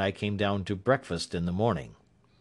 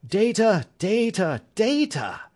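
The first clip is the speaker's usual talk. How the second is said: loud, higher, impatient repeated cry; impatient cries; 12 semitones higher, 3 dB louder than usual. A narrator's reading. Holmes crying out impatiently to Watson, loud and higher. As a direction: beat it out in frustration. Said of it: "he cried impatiently".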